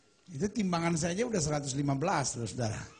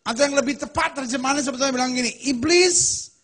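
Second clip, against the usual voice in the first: higher and louder, hammering each phrase; preaching at full force; 9 semitones higher, 9 dB louder than usual. Acted. Preacher thundering the verse about Satan to the congregation. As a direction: preach it hard, building to Iblis.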